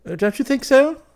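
high, loud challenge; demanding. A narrator's reading. Clifford challenging his unconvinced friend, demanding. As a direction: demand agreement, voice jumping right up. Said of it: "demanded Clifford".

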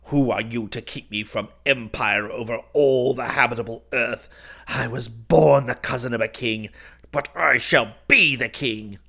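loud, emphatic declamation; ringing, defiant cry of a would-be king. A narrator's reading. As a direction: proclaim your claim to the throne at full voice. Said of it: "I cried".

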